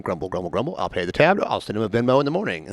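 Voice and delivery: low, soft mock grumble; grumbling. Paying a friend's bar tab, grumbling low. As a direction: mutter it under your breath, resigned. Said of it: "I'm like".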